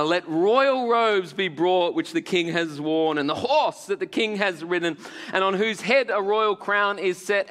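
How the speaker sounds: lightly put-on English courtier, measured proclamation; slightly English accent. Haman advising the king on honours, in a slightly English accent. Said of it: "he's a little bit English now".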